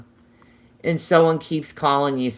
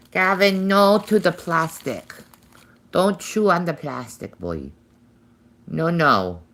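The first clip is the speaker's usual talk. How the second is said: louder, higher sharp no; firm scold; 5 semitones higher, 5 dB louder than usual. Real, not acted. Owner scolding Gavin off the plastic, loud and firm. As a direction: stop the bird from chewing plastic.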